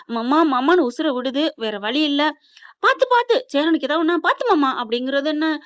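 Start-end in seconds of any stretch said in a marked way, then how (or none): 2.8-4.8 mock concern. Voicing Karthika's concern.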